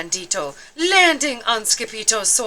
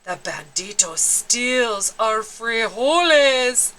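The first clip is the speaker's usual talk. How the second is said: Poquito Tito voice; slower than usual. Acted. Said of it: "said Poquito Tito".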